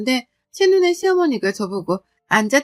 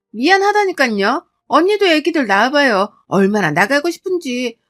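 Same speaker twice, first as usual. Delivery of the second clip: mildly exasperated, higher-pitched comeback; defensive irritation; 4 semitones higher, 5 dB louder than usual. Acted. Sister-in-law arguing back after apologizing, mildly indignant. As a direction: push back with a touch of whine. 시누이가 따지며 변명하는 말다툼.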